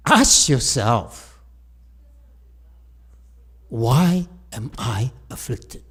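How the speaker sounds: slow deliberate question. Shown as a demonstration. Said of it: "When I tell the Asians".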